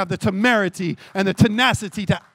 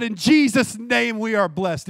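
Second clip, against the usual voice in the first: bold declaration; 2 semitones higher, 4 dB louder, slower than usual. Retold or imitated. Preacher declaring against the devil.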